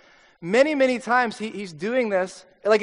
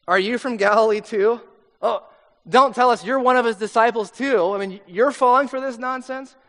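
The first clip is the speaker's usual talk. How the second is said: a mildly mocking, looking-down scoff; condescending; 3 semitones higher, 5 dB louder than usual. Leaders mocking Nicodemus, condescending. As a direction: talk down to him, mildly scornful. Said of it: "this is really condescending".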